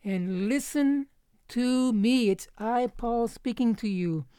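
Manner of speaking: Paul demanding attention. Retold or imitated. Paul tells the disciples to listen, insistent. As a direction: imitate an apostle insisting on being heard. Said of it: "He's saying".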